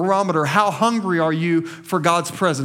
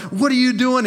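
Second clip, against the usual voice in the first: mock yell; 5 semitones higher than usual. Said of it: "he's yelling at them".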